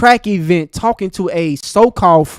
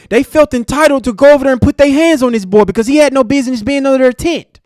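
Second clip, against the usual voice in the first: mocking imitation of Megan; 4 semitones higher than usual. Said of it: "fucking fake cry and act like you so concerned".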